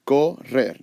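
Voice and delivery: "correr" split into co and rer; divided into syllables. Shown as a demonstration. Teacher dividing double consonants, "correr" in two separate syllables. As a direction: pause between co and rer in "correr". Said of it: "if you go".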